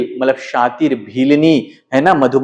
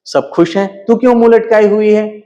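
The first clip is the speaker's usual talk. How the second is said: teasing; 3 semitones higher than usual. Acted. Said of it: "हंसकर बोल रही है".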